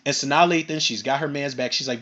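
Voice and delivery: usual speaking voice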